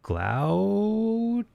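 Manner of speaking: Gloucester drawn out slowly with a high questioning rise; unsure pronunciation. Shown as a demonstration. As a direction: tentatively sound out Gloucester, pitch climbing. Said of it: "I'm gonna butcher this".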